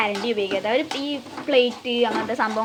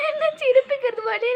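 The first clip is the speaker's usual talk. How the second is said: mouth full of hot food; 12 semitones higher, 7 dB louder than usual. Real, not acted. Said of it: "ഞാനൊരു വലിയ ഘട്ടത്തിലാണ്".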